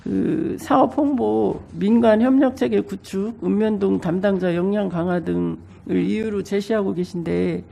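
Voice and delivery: speaking through a blocked nose; stuffy nose. Real, not acted. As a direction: voice thick with a cold. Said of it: "제가 감기에 걸려서". (감기 걸린 코맹맹이 목소리)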